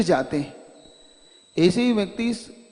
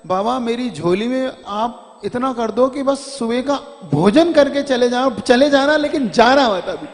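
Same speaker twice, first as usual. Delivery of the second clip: tearful begging; 2 semitones higher, 6 dB louder than usual. Retold or imitated. Weeping devotee begging the guru to eat breakfast first. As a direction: plead with the guru not to go, voice swelling. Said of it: "इतना रोता है वो".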